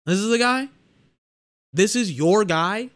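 high, fast, pitch climbing in disbelief; can't believe what you're seeing, voice up high; stunned fan mocking the hype, high and quick; incredulous disbelief. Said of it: "I was just like".

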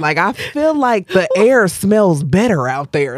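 dreamy travel ad voice; infomercial. Acted. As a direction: sell Bali like a travel show. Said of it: "why do you sound like an infomercial for Bali".

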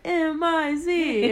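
slow chanted yell. Retold or imitated. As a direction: chant it out loud, spelling letters. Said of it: "and we were yelling".

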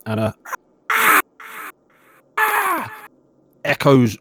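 measured scene-setting storyteller; game master narration. Acted. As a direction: narrate the scene to the players, with pauses.

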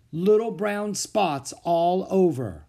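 put-on slow, faraway little boy; Henry murmuring slowly, lost in thought; dazed boy. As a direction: answer as if in a trance, slowly. Henry answers in a daze.

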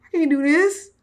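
high, loud smoky mock wail; hammed-up smoky cry. Shown as a demonstration. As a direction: rasp it out in a put-on smoky voice. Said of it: "In my smoky voice".

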